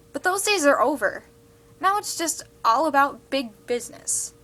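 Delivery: fed-up student letter writer, punching key words; indignant student monologue. Acted. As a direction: act out an indignant complaint to the editor.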